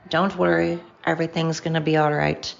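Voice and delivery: put-on an accidental, half-hearted Jamaican accent, barely there; bad Jamaican accent. Podcaster quoting a singer to listeners, in a faint bad Jamaican accent. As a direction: slip lightly into a clumsy Jamaican lilt. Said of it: "I said it with a really bad Jam".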